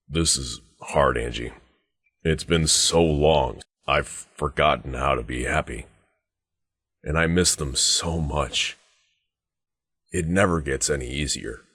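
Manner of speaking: slow, halting, heavy with longing; subdued grief with long pauses; sorrowful. Acted. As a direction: draw it out, aching for lost family. Grieving over lost family with Angie.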